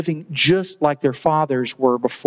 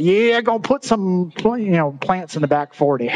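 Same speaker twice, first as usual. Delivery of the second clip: redneck voice; 2 semitones higher than usual. Retold or imitated. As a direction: play a laid-back farmer, only lightly. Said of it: "rednecks over there going".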